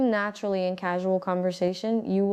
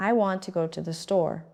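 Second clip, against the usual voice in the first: WANT, GO, STORE strong, "I", "to", "the" quick and soft; stressed rhythm. Shown as a demonstration. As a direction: let I, to and the slip by lightly. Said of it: "said quickly and softly".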